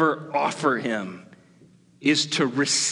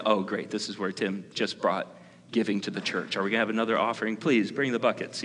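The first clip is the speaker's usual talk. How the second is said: mock sarcasm; 4 semitones lower, 5 dB quieter, much faster than usual. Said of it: "I might say".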